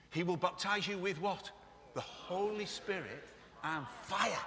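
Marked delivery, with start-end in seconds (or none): 1.9-4.4 slow, awed, reverent; slower, reverent take; with more awe. Shown as a demonstration. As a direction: savour each word in wonder. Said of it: "Say it with a little bit more awe".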